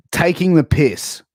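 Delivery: slowly spells out the phrase "Taking the piss"; slow slang demo. Shown as a demonstration. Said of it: "teaching the slang phrase".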